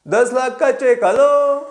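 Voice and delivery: high, loud burst of excitement; thrilled. Retold or imitated. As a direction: shout it like you can't believe the cheque. Recalling the ten-lakh cheque. (ऊँची, ज़ोरदार खुशी)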